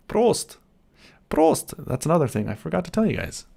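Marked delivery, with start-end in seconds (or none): 0.1-0.6 loud, high German toast; cheerful toast. Real, not acted. Streamer toasting chat with a cheerful Prost!. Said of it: "opened my favorite beverage". 1.3-1.7 loud German toast. Real, not acted. Streamer toasting chat with a loud Prost!. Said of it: "opened my favorite beverage".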